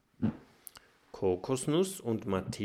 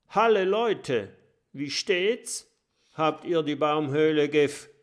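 cheerful; 5 semitones higher, 4 dB louder than usual. A narrator's reading. Oskar stolpert fröhlich herein.

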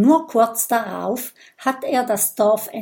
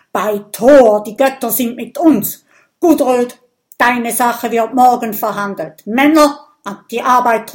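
loud chieftain rallying his men; rousing shout; 3 semitones higher, 9 dB louder than usual. A narrator's reading. Viking leader calls his men to work, rousing shout. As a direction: bellow it out with fired-up zeal. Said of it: "ruft Erik mit blitzenden Augen".

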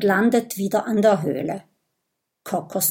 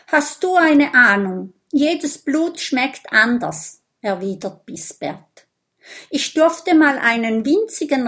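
lightly voiced young vampire, raised and eager; a hint of a huffy vampire boy; vampire boy, a little indignant; 3 semitones higher, 4 dB louder than usual. Vampire boy explains blood tasting to Lulu, mildly indignant.

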